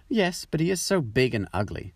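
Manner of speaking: a spiteful duck jeering at the duckling. A narrator's reading. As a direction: sneer it out with spite. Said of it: "said the spiteful duck".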